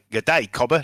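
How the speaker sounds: mock Australian accent, wobbling off course; slipping Australian accent. Mercenary greets a neighbour, in a slipping Australian accent. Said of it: "Lost my accent there a minute".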